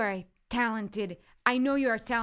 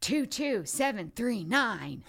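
slow, commanding captain voice; barked order; slower than usual. Acted. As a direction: bark the code like a stern captain. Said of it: "my best impression of what I imagine this woman is like".

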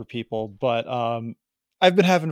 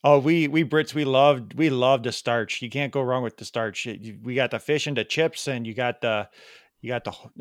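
bad British impression, more Wisconsin than British; mock British accent. Pretend Brit praising starchy food, in mock British accent. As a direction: improvise as a Brit with a Wisconsin twang. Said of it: "that's my best British impre".

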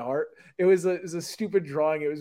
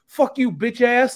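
higher, louder and slow mock yell; mock hostile yell; 8 semitones higher, 8 dB louder, slower than usual. Retelling a violent kid insulting passersby, slow mock yell. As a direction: drag out a street insult. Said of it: "he'd go".

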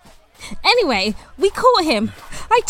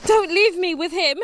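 panicked; 5 semitones higher than usual. Acted. Panicked plea near corpse.

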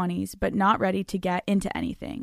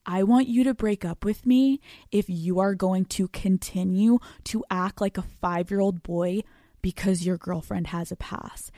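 calm and cool. Shown as a demonstration. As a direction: deliver it cool and composed. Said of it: "so calm".

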